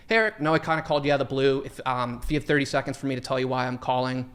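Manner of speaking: quick, sure permission opener; confident. Shown as a demonstration. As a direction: say it fast and assured. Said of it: "if you can confidently say".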